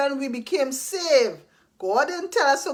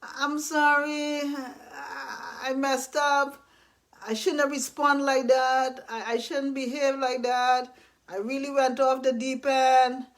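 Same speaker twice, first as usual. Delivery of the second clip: sheepish apology; 3 dB quieter than usual. Retold or imitated. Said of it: "with your tail between your legs".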